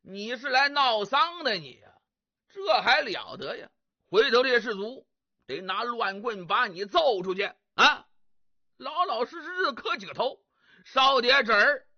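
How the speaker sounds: 粗声大嗓地训斥，一句比一句冲; 像猛将当面喝骂对方; 大声呵斥. Acted. 程咬金斥责李玄. (程咬金高声训斥来祭奠的李玄)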